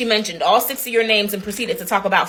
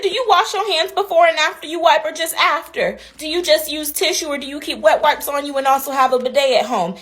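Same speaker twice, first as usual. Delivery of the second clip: raised voice, higher; mock interrogation, louder; pointed comeback; 7 semitones higher, 4 dB louder than usual. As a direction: fire the questions back loud. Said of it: "I said".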